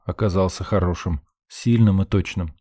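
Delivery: ordinary delivery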